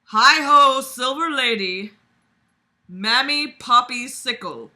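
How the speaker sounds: mock scream. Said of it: "He turned to everyone in the store and screamed".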